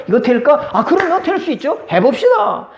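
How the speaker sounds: high, bright-eyed can-do voice with laughs; eager optimist, laughing along; upbeat positive person. Acted. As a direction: cheer them on, everything is possible. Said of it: "긍정적인 사람을 만나보세요".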